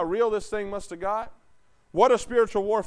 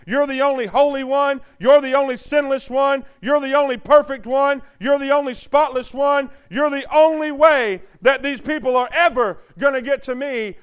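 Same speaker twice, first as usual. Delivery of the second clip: a touch louder, earnest fatherly voice; God speaking to his son; 4 dB louder than usual. Acted. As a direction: plead it gently but firmly as God the Father.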